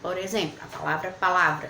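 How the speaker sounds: ordinary delivery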